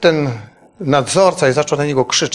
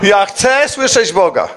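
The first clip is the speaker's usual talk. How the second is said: slow, earnest plea, a bit higher; pleading son; 4 semitones higher, slower than usual. Retold or imitated. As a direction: beg him slowly, from the heart. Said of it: "łzy mu ciekły". (syn błaga ojca, powoli i żarliwie)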